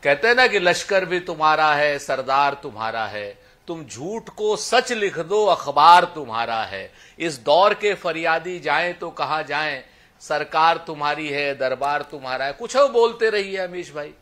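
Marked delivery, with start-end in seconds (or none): 0.6-12.5 measured couplets with weighted line endings; verse recitation. Acted. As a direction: recite it like a protest poem.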